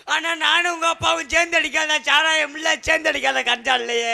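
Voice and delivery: hammed-up lament; mock crying. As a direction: wail it like a comic mourner. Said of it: "ஏய், இப்ப நீ ஏன் அழுகுற?". (போலி ஒப்பாரி)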